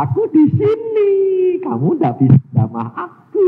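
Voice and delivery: loud high "sini", then slow and firm; defiant taunt. Retold or imitated. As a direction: dare them to touch you. (tantangan keras dan lantang)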